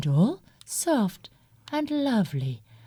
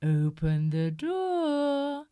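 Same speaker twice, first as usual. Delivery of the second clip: lightly sweetened, slow coaxing call; beautiful mother voice; 3 semitones higher than usual. Acted. Wolf at the door coaxes the kids in a sweet mummy voice. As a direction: sound like a gentle mummy. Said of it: "heard the beautiful voice".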